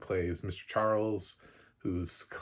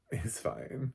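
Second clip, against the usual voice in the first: softer reassurance; 4 semitones higher, 4 dB quieter than usual. Real, not acted. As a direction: settle it gently, quieter. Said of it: "It's like".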